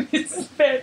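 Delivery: tentative girlish mock intro; uncertain, feminine. Podcaster imitating co-host's intro, uncertain and feminine. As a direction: imitate the co-host starting unsurely. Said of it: "uncertainly and femininely".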